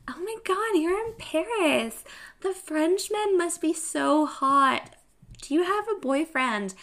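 high, gushing acquaintance firing questions; gushing excitement. Retold or imitated. Friends gushing about her Paris life.

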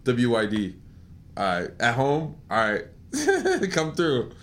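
low casual text. Retold or imitated. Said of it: "that's what I said to my casual".

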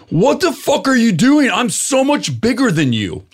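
imitating a panicky, high-pitched protest; nervous bluster. Bodybuilder backing down as he is approached, nervous high-pitched bluster. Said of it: "he's getting a little nervous".

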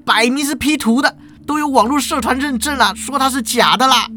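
high, fast aggrieved whine; shrill-free but high, quick sulky protest; whiny substitute teacher. Acted. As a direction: pitch it way up and rush the complaint like a wronged hourly lecturer. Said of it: "代课老师继续就说了".

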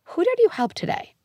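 put-on a bright sing-song quiz for a four-year-old; imitating a keen parent trying the dinner question; eager parent. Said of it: "someone listening to this is like".

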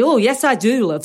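badly imitated northern English accent; mock northern English in a quick retold quote; terrible northern English accent. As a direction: attempt a northern English accent, not very well. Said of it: "that was a terrible northern accent".

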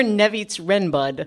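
Nevitz Renbud as a reversed name; backwards speech. Shown as a demonstration. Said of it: "I could talk backwards".

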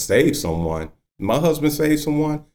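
startled into asking it back; surprised older wife. Retold or imitated. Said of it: "kinda, like, woke her up".

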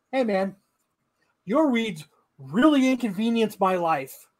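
slowed, sarcastic pleading tone; drawn-out fake-polite plea to the neighbor; mock whiny request. Mocking the neighbor's complaint in a sarcastic polite voice.

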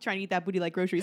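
laughing through the joke; giggling punchline. Retold or imitated. Retelling the joke.

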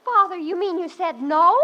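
high, loud disbelief; can't believe her ears; astonished. Acted. Daughter astonished that her father said no, high and loud.

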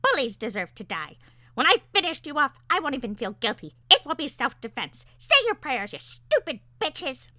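high, loud enraged bird rant; threatening parakeet. A narrator's reading. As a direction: shout death threats, building in fury. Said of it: "was still threatening our lives".

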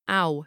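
"ow" with an open gliding sound; own-accent vowel. Shown as a demonstration. Narrator comparing accents for listeners, gliding "ow". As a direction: say "ow" as the speaker's own diphthong. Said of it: "In my accent".

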